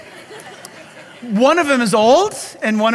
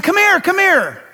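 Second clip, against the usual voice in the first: calling the dogs; 7 semitones higher than usual. Retold or imitated. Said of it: "I had been saying".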